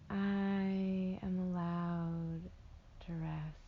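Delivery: slow meditation voice, long pauses between phrases; guided meditation. Acted. Meditation guide helping listeners float in warm water, slow guided delivery. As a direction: lull them into rest with drawn-out words.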